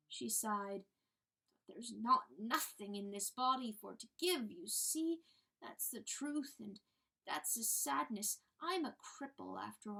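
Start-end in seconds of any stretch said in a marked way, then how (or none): 1.7-10.0 timid little hen. Acted. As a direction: play the humble little hen begging. Hen voice continues.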